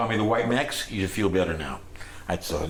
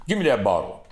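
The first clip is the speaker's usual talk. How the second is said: a blues singer; 3 dB louder than usual. Retold or imitated. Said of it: "He goes".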